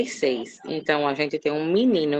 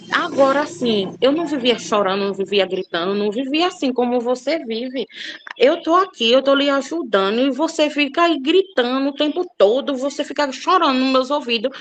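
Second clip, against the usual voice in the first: higher, raised voice at her daughter; exasperated scolding of daughter; 5 semitones higher than usual. Retold or imitated. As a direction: scold the crying, shouting girl. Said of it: "Eu digo". (bronca exasperada na filha, voz mais alta)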